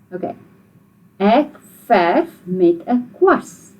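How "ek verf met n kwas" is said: slow, clear model sentence; every word set out slowly. Shown as a demonstration. Teacher slowly models the sentence for children to repeat. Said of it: "Sê dit".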